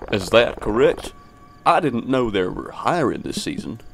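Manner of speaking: badly faked accent; put-on character voice. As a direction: play a puzzled official in a hammy accent. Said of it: "give this guy a fitting voice".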